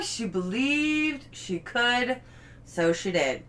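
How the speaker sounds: slow, tender read of the quote; slow heartfelt reading. Shown as a demonstration. Reading the board quote to viewers: slow tender read. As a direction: savor each word like a gift. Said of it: "reading finished board, slow".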